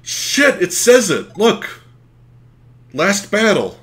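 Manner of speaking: high, loud burst of excitement; excited shout. Real, not acted. Player spots the last battle, shouting excitedly. Final battle appears on screen.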